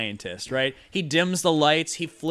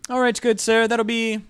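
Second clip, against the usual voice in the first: a touch of pushy tradesman asking for pay; eager shopkeeper; 4 semitones higher than usual. Acted. Mad scientist asks for payment.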